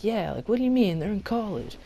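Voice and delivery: high-pitched mock protest; protesting friend. Friend answering the accusing girl, high puzzled protest. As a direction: push the voice up, puzzled and defensive.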